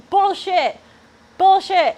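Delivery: high-pitched outraged protest; indignant denial. Acted. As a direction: blurt it out in loud, high indignation. Mock-denies an accusation from chat.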